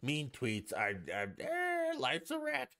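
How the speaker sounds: hammed-up whiny rant; mock Trump rant. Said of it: "he'd be like".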